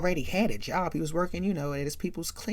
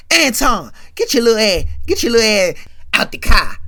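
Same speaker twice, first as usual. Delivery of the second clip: higher, louder yelling order; loud command; 5 semitones higher, 14 dB louder than usual. Retold or imitated. Big brother ordering Anton out of the car, yelling. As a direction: yell him out of the car now.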